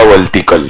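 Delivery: वर्टिकल said as "वलटिकल", r turned to l; lisping child. Pretend. Teacher mimics a lisping student, वर्टिकल as "वलटिकल". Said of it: "तोतला बोलेगा".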